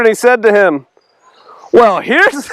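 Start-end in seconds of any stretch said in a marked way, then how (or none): 1.7-2.5 raised, drawn-out mock wonder; sarcastic. Healed man mocking the Pharisees, sarcastic. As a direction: lay the sarcasm on thick. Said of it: "He's so sarcastic".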